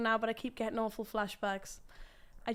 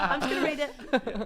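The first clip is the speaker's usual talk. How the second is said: laughing; 4 semitones higher, 10 dB louder than usual. Real, not acted. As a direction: give up in giggles. Gives up on the accent, laughing.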